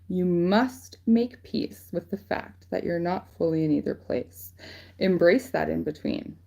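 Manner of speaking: quoted reading voice; reading a quote aloud. Acted. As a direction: read out like a passage from a card. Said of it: "So it says".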